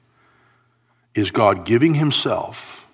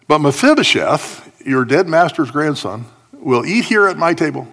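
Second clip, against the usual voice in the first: emphatic king's decree; 6 semitones higher, 5 dB louder than usual. Acted. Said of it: "the sarcasm that shows up".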